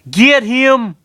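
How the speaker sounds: rally the mob; yelled order. Acted. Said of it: "Roy yelled".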